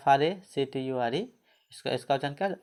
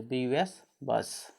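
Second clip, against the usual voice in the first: slow spelling; slower than usual. Shown as a demonstration. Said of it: "अ।".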